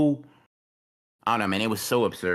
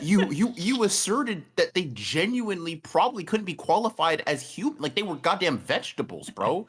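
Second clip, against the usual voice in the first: excited rant; 5 semitones higher than usual. Real, not acted. Heated absurd rant, high voice.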